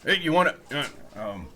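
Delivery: loud recruiter calls; hollering at passing peasants; calling out. Acted. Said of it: "He's like".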